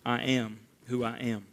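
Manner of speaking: low, hushed, with a pause midway; left hanging. Retold or imitated. Preacher echoes God's name to the congregation, hushed and left hanging. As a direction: say it softly and let it hang in silence. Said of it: "he just leaves it hanging".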